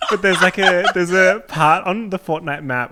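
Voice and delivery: talking through real laughter; loud, giggly, trying to get it out; laughing. Real, not acted. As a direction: struggle to speak through the giggles. Cracking up while explaining.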